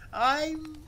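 very high, drawn-out hesitation; shamefaced. A narrator's reading. Embarrassed worker tries again to confess, shamefaced. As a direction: hang nervously on the word. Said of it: "he gulped down his Adam's apple".

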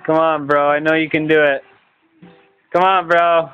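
normal talking voice

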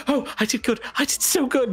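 high, delighted voice; pleased gambler girl. Acted. Girl gloating to the gambler over her win, high and delighted. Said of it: "And she's like".

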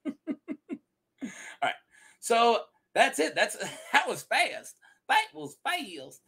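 giggling through the words; laughing. Real, not acted. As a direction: laugh it out, barely holding it. Laughing after the story.

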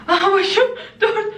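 high, strained counting through the cold; pushing through icy pain, laughing; brain freeze. Real, not acted. Counting while holding ice.

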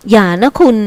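mild stern warning; a touch of reproof; scolding voice. A narrator's reading. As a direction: scold lightly to stop someone. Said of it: "ซกเตียงทำเสียงดุ".

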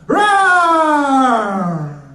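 hammed-up lion roar. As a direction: roar like a lion after dinner. Comic playing a roaring lion.

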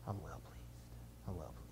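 soft, hushed proud father voice; the Father proud of his son, softly pleased; a hint of proud Father. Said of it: "the Father just smiles".

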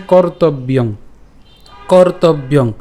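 "কর্তব্যং" with an iyo glide and nasal ending; pronunciation demo. Shown as a demonstration. Teacher explaining jophola and anusvara, careful demo. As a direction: sound "কর্তব্যং" as kor-tob-iyong. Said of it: "তাহলে উচ্চারণটা কেমন হচ্ছে?".

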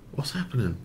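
soft, hushed whisper; quiet, whispery aside; whispered question. Real, not acted. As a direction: whisper it under your breath. Anxious aside during the deal.

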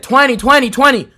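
livelier, repeated taunt; mocking. Guy mocking the American's way of saying twenty, mocking. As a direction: parrot the word in mimicry. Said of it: "mocking me".

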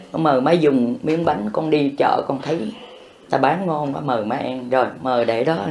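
softly, tenderly inviting mother to eat; gentle offering. Pretend. A son softly offering his mother cake, tender and hushed. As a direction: coax her gently, voice dropping to near hush.

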